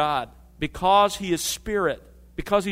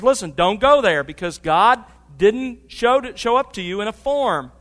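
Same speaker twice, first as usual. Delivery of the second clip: louder, higher urgent plea; urgent exhortation; 5 semitones higher, 7 dB louder than usual. Acted. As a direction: warn the congregation firmly. Preacher urges the listeners.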